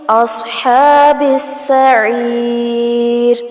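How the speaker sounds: slow اصحاب السعیر with a full heavy s and long haa; اصحاب السعیر with a heavy saad. Shown as a demonstration. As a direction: thicken the s of اصحاب, stretch the haa. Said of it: "صاد کو پر کیا جائے گا".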